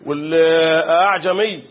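أعجمي drawn out slowly with the second hamza softened; eased hamza. Shown as a demonstration. Teacher demonstrates tas-hil to students, eased hamza. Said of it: "تسهيل".

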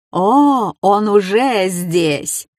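slow, gloating taunt; a sly, drawn-out jeer; mocking. A narrator's reading. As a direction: drag it out to torment her. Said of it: "с издёвкой сообщил Уилл".

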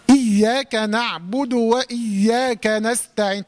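slow recitation, doubled ي in إياك; stressed doubled ya. Shown as a demonstration. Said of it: "تشديد إيه؟".

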